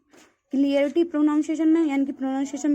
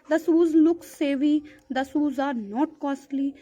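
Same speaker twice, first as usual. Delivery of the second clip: slow example reading; much slower than usual. Acted. Teacher reading word-choice examples to students, slow. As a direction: dictate the sentence slowly. Reads example sentences aloud.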